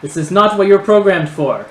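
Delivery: high, loud nerdy scolding; high-pitched nerdy voice. Acted. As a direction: challenge them in a high, nerdy villain voice. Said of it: "the voice continues".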